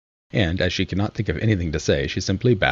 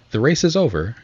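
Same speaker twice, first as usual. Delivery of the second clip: raised, louder announcing call; 6 semitones higher, 5 dB louder than usual. A narrator's reading. Dodo announcing to the runners, calling out. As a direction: call it out suddenly to everyone. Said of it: "suddenly called out".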